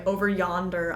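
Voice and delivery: great-grandmother's "over yonder". Retold or imitated. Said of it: "my great-grandmother used to say".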